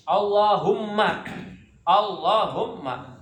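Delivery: Allahumma with a long held double l; doubled lam. Shown as a demonstration. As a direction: lean on the lam in Allahumma, slow. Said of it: "yang bertasdid adalah huruf lamnya".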